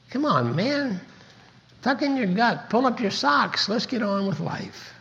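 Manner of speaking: rally yourself, coach-like; a hint of a coach barking at his own slumped self; self pep talk.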